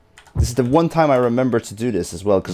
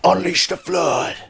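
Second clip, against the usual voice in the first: announcing call; 8 semitones higher, slower than usual. Shown as a demonstration. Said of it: "wait until I say".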